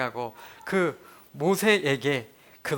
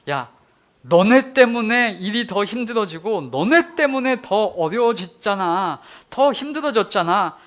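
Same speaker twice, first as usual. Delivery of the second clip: louder, reproachful scolding; complaining rebuke; 3 semitones higher, 5 dB louder than usual. Retold or imitated. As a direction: blame them in a raised voice. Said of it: "원망을 쏟아냅니다". (원망하며 따지는 목소리)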